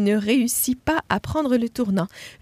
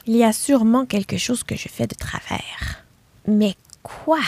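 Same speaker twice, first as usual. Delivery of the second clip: whispered puzzling aloud; wondering to herself. Acted. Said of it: "se demanda-t-elle".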